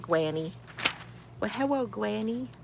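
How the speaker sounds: "Granny" with the r rounded to a w, "Gwanny"; playful cartoon "Gwanny" for "Granny"; baby-talk lisp. Shown as a demonstration. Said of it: "I want to do a wap-, wascally rabbit sound with that one".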